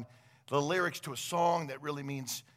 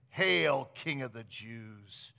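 sarcastic; 4 semitones lower, slower than usual. Retold or imitated. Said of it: "then sarcastically declaring".

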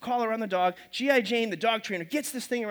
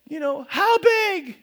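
puzzled Noah; 8 semitones higher, 6 dB louder, slower than usual. Acted. Noah voiced asking God.

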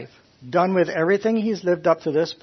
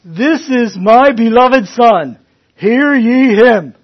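slow, loud, higher proclamation; voice of God; 7 semitones higher, 12 dB louder, slower than usual. Retold or imitated. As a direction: announce it slowly like a voice from heaven. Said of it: "God says in an audible voice".

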